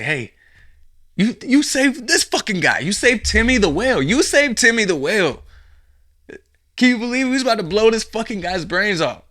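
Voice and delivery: shouted high and loud in a put-on voice, laughing disbelief; loud mock cheer. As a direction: yell it like a stunned, cheering crowd. Imagined people laughing and cheering.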